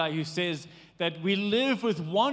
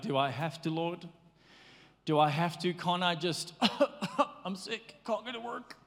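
whiny reluctance; 3 semitones lower, 4 dB quieter than usual. Acted. Grumpy morning voice acted out.

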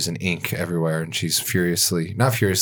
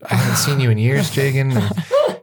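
polite irritation; 3 semitones higher than usual. Acted. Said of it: "elf annoyed at questions".

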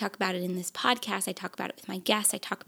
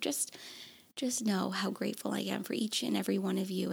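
softer, fast and tearful; through tears; 6 dB quieter, faster than usual. Real, not acted. Podcaster thanking listeners, voice thick with tears. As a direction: push the thanks out while crying. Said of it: "I'm gonna cry".

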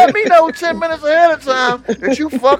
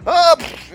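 mock crash; 5 semitones higher than usual. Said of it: "everybody say".

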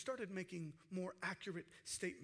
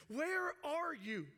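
higher, drawn-out call to God; mild retold shout; 5 semitones higher, slower than usual. Moses crying to God for rescue, mild imitated shout. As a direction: call it out slowly, pitched up. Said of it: "It's like he's shouting back".

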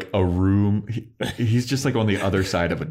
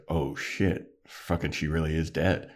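a little emotional; 6 dB quieter than usual. Retold or imitated. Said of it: "he starts to get, like, a little emotional".

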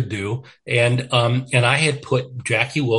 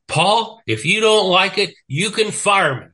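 higher, defiant retort to the boss; retold angry comeback; 8 semitones higher, 3 dB louder than usual. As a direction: snap back at the boss, pitch raised, in mock defiance. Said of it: "and I got pissed".

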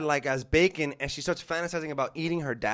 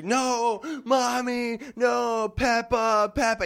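higher, imitating a panicked child; crying little girl; 5 semitones higher, much slower than usual. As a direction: play the scared kid running out.

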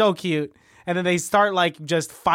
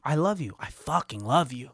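sincere; 4 semitones lower, 5 dB quieter than usual. Pretend. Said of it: "What would you say".

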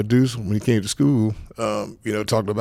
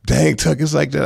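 surprised teammate; 5 semitones higher than usual. Retold or imitated. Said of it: "he was like".

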